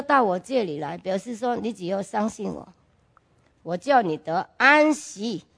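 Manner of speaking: almost confiding the promise; soft voice of God. Retold or imitated. Voicing God's words softly. (轻声柔和地转述神的话)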